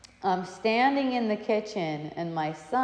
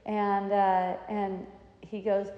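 usual speaking voice

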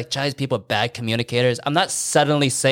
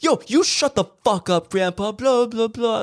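high, mocking squeaky retort; mock angry neighbour; 12 semitones higher than usual. Mocking a neighbour's retort, high squeaky snap. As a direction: mimic a petty neighbour snapping back. Neighbour snapping back in chat.

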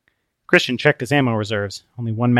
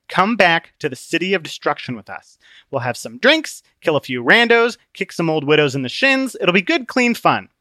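put-on raised, reckless party-boy voice; Obstinate, carefree; 6 semitones higher, 3 dB louder than usual. Obstinate urging fun before annihilation, carefree. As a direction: shrug off doom gleefully.

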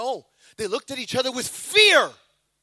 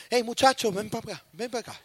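put-on Latino accent. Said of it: "I think he was Latino".

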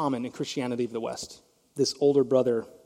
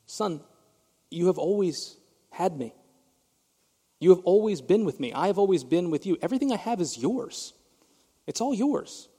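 a touch of sadness; 3 semitones higher than usual. Retold or imitated. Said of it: "do you hear the sadness in the father's voice".

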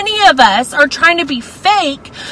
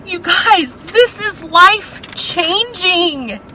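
1 choked up; 6 semitones higher than usual. Real, not acted. Emotional testimony on Paul's prison.

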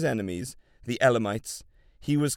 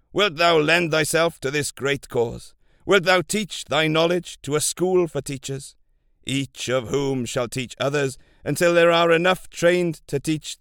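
loud, commanding royal voice; booming warrior king; 2 semitones higher, 5 dB louder than usual. Acted. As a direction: boom out the king's orders.

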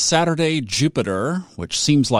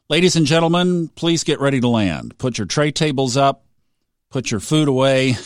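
breezy pilot landing announcement; flight attendant. Pretend. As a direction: announce the descent like cabin crew, casually. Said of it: "what they should say on the airlines".

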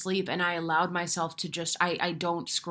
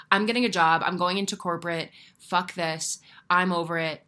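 a touch of a retold outburst, louder at the start; mock meltdown; 4 dB louder than usual. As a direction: retell the moment you snapped and quit, half-playful. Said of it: "full on meltdown".

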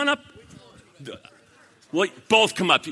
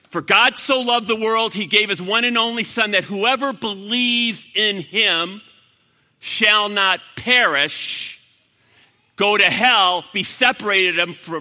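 emphatic scripture quote; 3 semitones higher, 6 dB louder than usual. Acted. Preacher quoting John three sixteen to the crowd, emphatic. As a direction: proclaim the verse forcefully.

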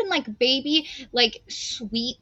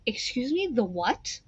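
stunned hushed quote; 3 semitones lower, 9 dB quieter than usual. Retold or imitated. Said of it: "And I went".

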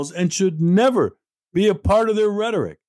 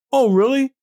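sarcastic; 8 semitones higher than usual. Real, not acted. Host mocking UN nations who won't free hostages, sarcastic. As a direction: scoff it, eyebrows raised.

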